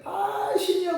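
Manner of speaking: high-pitched mock yell without much volume. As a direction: imitate a desperate cry of prayer. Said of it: "소리를 지르면서".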